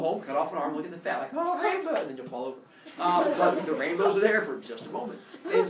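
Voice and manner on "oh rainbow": higher awestruck cry; mock wonder. Teacher acting out someone spotting a rainbow, mock wonder. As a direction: marvel in a high pitch. Acting an entranced viewer of fat.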